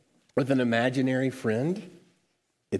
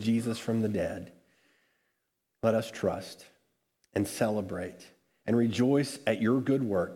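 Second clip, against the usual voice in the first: prayer. Acted. Pastor prays before the reading.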